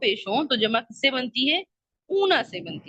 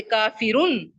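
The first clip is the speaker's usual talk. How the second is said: slow demo word; 3 semitones lower, much slower than usual. Shown as a demonstration. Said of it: "ایک پیش لگا دی اور آگے اونا لگا دیا".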